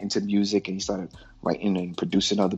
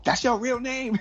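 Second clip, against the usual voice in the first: retold surprise; 13 semitones higher than usual. Peppy reacts to Prince's name.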